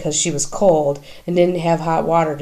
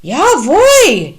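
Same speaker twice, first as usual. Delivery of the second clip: higher, loud call through the door; yelling back; 10 semitones higher, 6 dB louder than usual. A narrator's reading. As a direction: answer from the bathroom. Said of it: "yells a voice from the shared bathroom".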